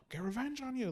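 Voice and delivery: high, loud mock vow of revenge; retold angry threat. Priest vowing revenge on Zeke, a mock angry shout. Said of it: "he was getting angry".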